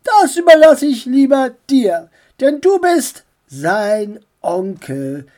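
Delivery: lightly voiced aunt passing the task; aunt's voice.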